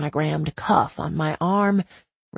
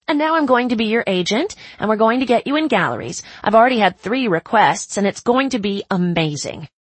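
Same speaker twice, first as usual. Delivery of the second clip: fast, loud excited chatter; excited yammering; 3 semitones higher, 4 dB louder than usual. Acted. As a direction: rattle it off breathlessly. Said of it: "yammering on excitedly".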